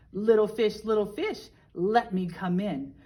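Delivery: a hint of a growly storybook shark calling through the door; big bad shark. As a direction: loom over the little fish as the shark. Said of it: "roared the shark".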